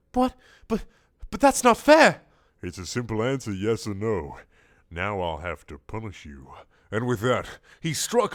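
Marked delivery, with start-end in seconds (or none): 0.1-2.2 very high, loud whine; shrieking indignant castle; whining protest. Acted. 2.6-6.5 stern monster voice; stern squid. Acted.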